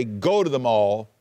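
slow, firm "go to the mall"; firm command. Shown as a demonstration. Preacher contrasting a real command, slow and firm. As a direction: say it as an order. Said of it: "compared to the imperative would say".

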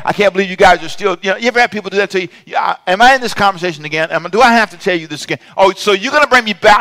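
exasperated rant. Acted. Preacher acts out an exasperated rant.

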